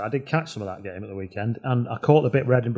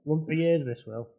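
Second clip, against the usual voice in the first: car salesman voice; 3 semitones higher than usual. Pretend. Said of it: "like a second-hand car on eBay".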